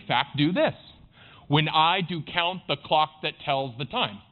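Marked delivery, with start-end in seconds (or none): 1.5-4.2 slow, metered beat stressing "I", "count", "clock", "tells", "time"; iambic pentameter. Shown as a demonstration. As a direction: tap out "When I do count the clock that tells the time" weak-strong. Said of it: "That's iambic pentameter".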